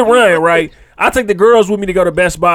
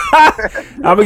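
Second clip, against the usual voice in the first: laughing while talking; slower than usual. Real, not acted. Still laughing at the joke.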